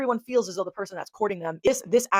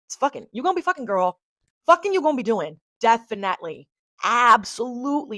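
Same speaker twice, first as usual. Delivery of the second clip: excited exclaiming; 3 semitones higher, 7 dB louder than usual. Real, not acted. Gleeful outburst over Lilith placements.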